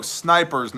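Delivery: "snipers" said distinctly as a correction; stress on SNIPERS. Real, not acted. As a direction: make "snipers" clear against a mishearing. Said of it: "not diapers".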